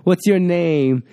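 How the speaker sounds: slow, drawn-out wrestler catchphrase; hammed-up, slow challenge; The Rock. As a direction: draw it out like a showboating wrestler. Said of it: "trying to go for a rock".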